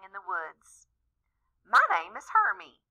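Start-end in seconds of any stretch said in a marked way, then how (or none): 1.6-2.8 high little elf voice; christmas elf. A narrator's reading. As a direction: squeak it like a tiny elf. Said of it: "said the elf".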